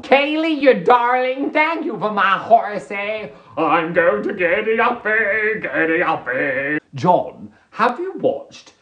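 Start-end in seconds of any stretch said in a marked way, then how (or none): 0.0-6.8 high, gushing put-on voice; put-on excited character. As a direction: gush thanks like an overexcited rider. Launches into horsey thank-you act.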